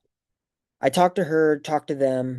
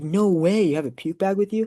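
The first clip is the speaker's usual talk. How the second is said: higher-pitched disbelief; incredulous reaction; 7 semitones higher than usual. Retold or imitated. Graduate hearing of a classmate's puke bag, incredulous. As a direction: retell it as an amazed "no way".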